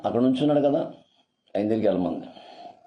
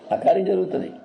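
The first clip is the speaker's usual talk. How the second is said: much higher, ringing repeat of ఆ కార్యం జరుగుతుంది; rising proclamation; 8 semitones higher than usual. Acted. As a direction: lift the repeat up high like a triumphant cry. Preacher repeats promise, then higher.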